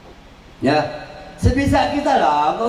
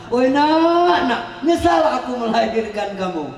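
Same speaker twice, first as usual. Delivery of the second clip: mother's angry lament; 2 semitones higher than usual. Retold or imitated. Preacher imitating a mother regretting her child, mock shout. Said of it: "ibu-ibu marah".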